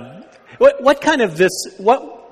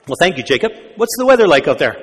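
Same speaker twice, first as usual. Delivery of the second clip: quick chatty DJ, a bit louder; Robin Williams DJ; 3 dB louder, faster than usual. Retold or imitated. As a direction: rattle it off like a radio host. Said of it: "Robin Williams is this D J".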